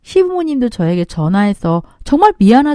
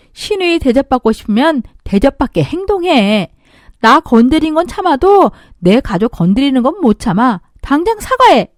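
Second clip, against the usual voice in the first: firm demand; 3 semitones higher than usual. Acted. Narrator demands apology.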